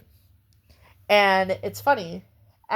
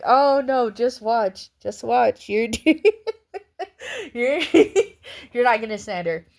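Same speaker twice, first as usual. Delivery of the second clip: laughing self-quote; 4 semitones higher than usual. Retold or imitated. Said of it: "I'm like".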